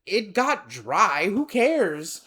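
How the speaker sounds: slow, drawn-out who cares; dismissive shrug. Retold or imitated. Me dismissing the boss's complaint, slow and dismissive. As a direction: brush it off slowly.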